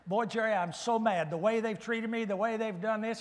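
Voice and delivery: imitating someone venting, lightly heated; mock angry complaint. To the pastor about being treated badly, mildly worked-up. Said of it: "Have you ever heard somebody say".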